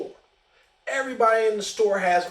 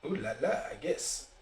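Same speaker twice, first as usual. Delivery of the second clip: snide ooh la la; 5 semitones lower, 9 dB quieter than usual. Retold or imitated. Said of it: "this punk motherfucker goes".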